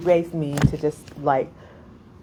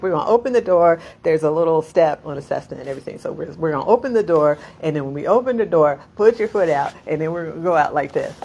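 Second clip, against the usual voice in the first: instructor briefing; 4 dB louder, faster than usual. Retold or imitated. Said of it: "They're like".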